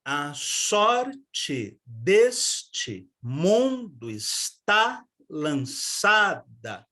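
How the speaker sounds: very slow, beat by beat verse; drawn-out rhythmic reading; scanning the rhythm. Shown as a demonstration. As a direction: mark each stressed syllable slowly. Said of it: "como neste verso de Tomás Antônio Gonzaga".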